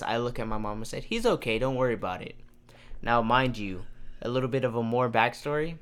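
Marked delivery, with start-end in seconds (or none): 1.0-2.3 fake confidence. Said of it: "with pure confidence".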